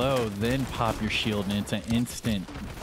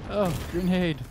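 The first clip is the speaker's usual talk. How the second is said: grenade warning yell; 8 semitones higher than usual. Real, not acted. Calling out incoming grenade.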